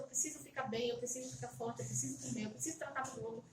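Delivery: pep talk aloud. Retold or imitated. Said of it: "eu falava em voz alta".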